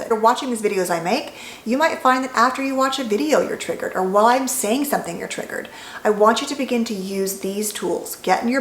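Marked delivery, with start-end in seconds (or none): 3.4-3.9 breathy whisper with no voice. Real, not acted. Aside about being triggered. 5.2-5.7 breathy whisper with no voice. Real, not acted. Aside about being triggered.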